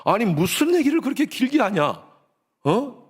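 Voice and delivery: put-on high-pitched, jealous boyfriend's rant; retold angry scolding. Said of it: "제가 막 화를 냈어요".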